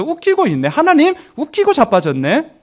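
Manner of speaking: high-pitched, derisive scoff; scoffing devil. Acted. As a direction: sneer at God as the tempter. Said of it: "우리들을 유혹하는 거예요".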